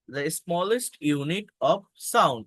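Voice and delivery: very slow, every word spaced; teacher repeating a definition slowly; slow dictation. Shown as a demonstration. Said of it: "repeats definition for students".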